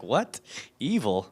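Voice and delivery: mock incredulous. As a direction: imitate someone taken aback. Retells others' shocked reaction.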